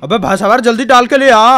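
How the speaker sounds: थोड़ी नीची, खिंची आवाज़ में कुत्ता चॉप; "यार" पर ऊपर उठती टोन वाला चॉप; Chop dog voice. Pretend. (मज़ाकिया चॉप की हल्की सी आवाज़)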